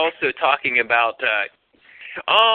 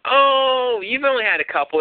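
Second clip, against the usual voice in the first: high-pitched, breezy brush-off of a worry; playing down a worry in a raised voice; coaxing reassurance; 9 semitones higher than usual. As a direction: talk a reluctant date into it, pitched up. Retold coaxing of reluctant date.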